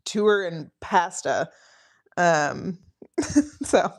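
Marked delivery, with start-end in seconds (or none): 0.0-1.5 "tour" said slowly like "toor" with a Canadian lilt; slow Canadian "tour and pasta"; Canadian pronunciation. Shown as a demonstration. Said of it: "The speaker's Canadian accent only pokes out".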